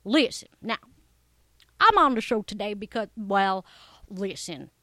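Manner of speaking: a hint of an eager kids' acting coach; lightly voiced acting coach. Deborah the coach greets the young listeners, lightly voiced and eager. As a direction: play a chipper coach talking to kids. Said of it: "Deborah the coach".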